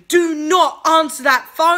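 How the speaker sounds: loud, sharp warning not to answer; urgent yell. Retold or imitated. Friend yelling at her not to pick up, loud. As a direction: snap at her to leave the phone.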